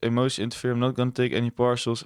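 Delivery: quick, lightly mocking trader quote; sarcastic imitation. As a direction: rattle it off like a cocky trader. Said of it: "imitating I C T traders on".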